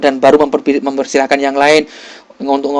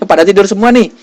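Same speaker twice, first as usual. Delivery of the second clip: laughing tease; 5 semitones higher, 4 dB louder, faster than usual. Real, not acted. Teasing the sleepy class.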